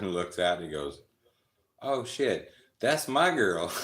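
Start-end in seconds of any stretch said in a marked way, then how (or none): 1.8-3.7 much higher and louder, startled; shocked outburst. Retold or imitated. Partner recognizing his own girlfriend out the window, loud shocked blurt.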